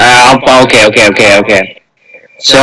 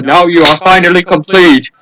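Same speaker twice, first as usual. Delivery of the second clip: slightly raised, lightly theatrical villain voice; mock villain with a staged laugh; 3 semitones higher than usual. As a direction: play the triumphant villain, lightly hammed-up. Acts villain after slow clap.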